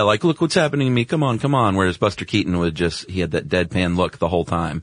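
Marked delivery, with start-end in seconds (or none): 0.2-1.8 higher, pleading mock appeal; mugging for sympathy. Acting out Chaplin asking the audience for sympathy, hammed-up pleading. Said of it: "constantly mugging for the camera".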